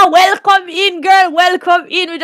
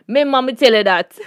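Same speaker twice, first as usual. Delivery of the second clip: thick Jamaican patois delivery; Jamaican accent; 2 semitones lower than usual. Shown as a demonstration. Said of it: "That's my Jamaican".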